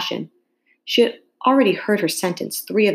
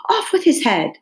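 shouting; 8 semitones higher than usual. A narrator's reading. Queen stamping about, shouting orders. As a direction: bellow it like a raging queen. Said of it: "went stamping about and shouting".

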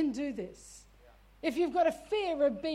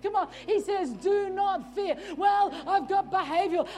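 full-force preaching. Acted. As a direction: preach it hard to the church.

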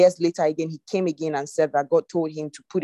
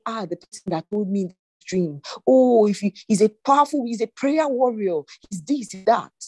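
mock worried exclaiming, pitched higher; 4 semitones higher than usual. Believer fretting over who told the dream, mock worried. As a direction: act out an anxious believer, voice rising high. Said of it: "You begin to worry".

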